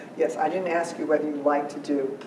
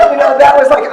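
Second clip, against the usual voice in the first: words spilling out mid-laugh, louder; laughing through words; 10 semitones higher, 18 dB louder than usual. Real, not acted. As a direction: still cracking up as you talk. Still laughing after the story.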